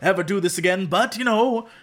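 lightly voiced scolding leader, lifting in pitch; gently mock a leader's lecture; retold scolding. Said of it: "she scolds them".

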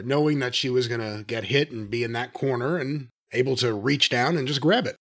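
ordinary delivery

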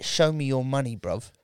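lightly put-on London Jamaican voice; casual challenge in Jamaican English; imitated Jamaican-London geezer; Jamaican English accent. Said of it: "that really cool accent".

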